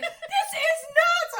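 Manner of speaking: high, slow, squealing disbelief with a laugh; mock husband outburst. Husband reacting to her home nail removal, high and slow. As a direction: play him losing it, laughing. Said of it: "He's like".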